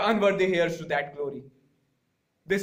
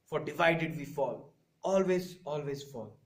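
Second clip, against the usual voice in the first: fading dramatic warning; 5 semitones lower, 6 dB quieter than usual. Acted. Dramatic oratorical fade.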